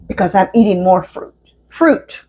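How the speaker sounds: talking through a mouthful of pancake; words round a bite of food; mouth full. Real, not acted. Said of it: "I can't talk and eat at the same time".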